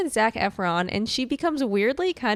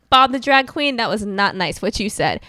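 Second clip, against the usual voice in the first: Nikki Blonsky impression; 4 dB louder than usual. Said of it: "She would say".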